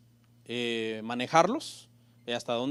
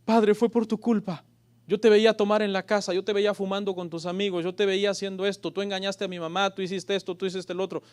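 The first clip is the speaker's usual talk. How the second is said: put-on a grown child blaming the father, higher and louder; hurt son throwing the blame back; reproachful child; 5 semitones higher, 4 dB louder than usual. Preacher voicing a hurt child accusing his father.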